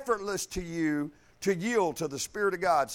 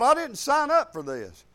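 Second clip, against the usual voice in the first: indignant protest; 5 semitones higher than usual. Retold or imitated. Acts out his old protest.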